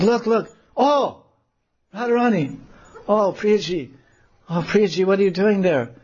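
put-on very high, urgent girl voice; high shrill-pitched Lalita calling; alarmed friend. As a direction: point up at Radha in alarm. Lalita points at Radha.

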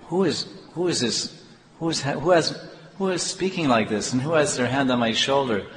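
acting out stunned, stammering disbelief; trembling wonder. Blind devotee wondering whose hand is on his shoulder, mild awe. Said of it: "he started trembling, and his heart was beating very fast".

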